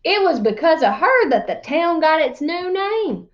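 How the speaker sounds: lively storyteller voice reading a tall tale; animated read-aloud narration; story narration. A narrator's reading. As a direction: spin the yarn to the class.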